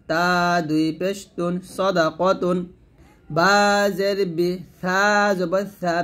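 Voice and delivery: slow, long-held letter names, then the joined word; slow, measured teaching chant; slow Arabic spelling drill. Shown as a demonstration. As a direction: recite letter by letter, stretching each name.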